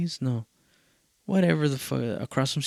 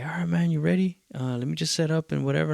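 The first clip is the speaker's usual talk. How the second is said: lightly voiced host, higher and quick; imitated casual host; 6 semitones higher, faster than usual. Show host checking the performer is ready, lightly imitated casual host. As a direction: rattle it off as the easygoing host. Voicing the show's host before set.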